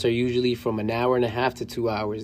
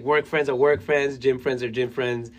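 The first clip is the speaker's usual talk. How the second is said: slow deadpan. Retold or imitated. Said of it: "You ever saw the meme? He's like".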